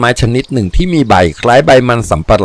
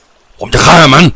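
raised, drawn-out threat; higher, stretched angry shout; loud, enraged cry; 5 semitones higher, 4 dB louder, much slower than usual. A narrator's reading. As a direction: cry out in murderous anger. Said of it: "อำนวยร้องลั่น".

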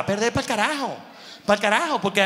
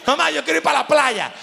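put-on higher pleading kid voice; begging child; 5 semitones higher than usual. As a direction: whine for the beach. Niño pidiendo a mamá. (niño suplicando a mamá)

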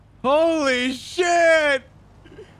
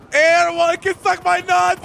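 shouting; 3 semitones higher, 5 dB louder than usual. Real, not acted. Wild shout after chaotic landing.

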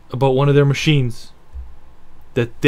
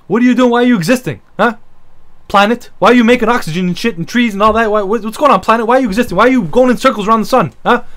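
mock rant at the planet; 4 semitones higher, faster than usual. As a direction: yell at the planet like it owes you. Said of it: "Getting mad at the planet".

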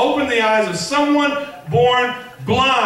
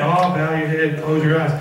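mock prayer instruction; 5 semitones lower than usual. Mimics routine prayer instruction.

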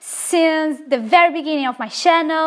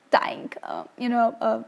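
whisper; 5 semitones lower, 7 dB quieter than usual. Real, not acted. Telling viewers the old man is dying, whispered. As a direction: drop to a whisper for the sad part.

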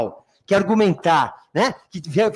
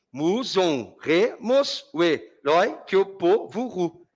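"Mu, zon, re, mos" in separate even beats; syllable-by-syllable scansion; much slower than usual. Shown as a demonstration. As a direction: chop the verse into syllables, ending on "ru". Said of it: "Então fica vogal com vogal".

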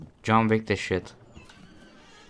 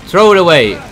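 urgent shout; 4 semitones higher, 9 dB louder than usual. Real, not acted. Urging during game danger.

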